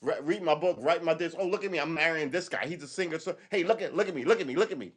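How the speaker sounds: high, showy self-promoting voice; high, hammed-up influencer voice; mock attention seeker. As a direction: parody someone begging for attention. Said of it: "You're just browbeat".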